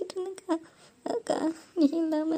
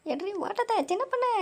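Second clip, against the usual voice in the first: yelled to run; 6 semitones higher than usual. Pretend. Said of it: "மறுபடியும் கத்த ஆரம்பிச்சிட்டாருங்க".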